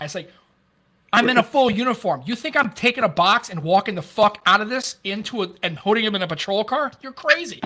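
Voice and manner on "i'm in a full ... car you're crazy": retold indignant refusal. Arguing with partner over donuts.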